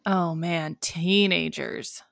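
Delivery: slow, mildly exasperated imitation; mock exasperation. Host imitating the show's view of teenagers, mock exasperation. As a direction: drag out the words in mock dismay. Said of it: "this thing that they do a lot in this show that's like".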